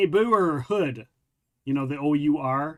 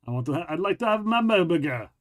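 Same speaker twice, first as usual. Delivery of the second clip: mock French accent. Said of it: "that's very Pink Panther right there".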